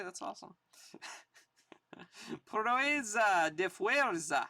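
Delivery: slow, drawn-out mock-grand advertisement; hammed-up retro bodybuilding pitch; vintage ad read. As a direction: sell the muscle course like an old radio spot. Reads old bodybuilding ad aloud.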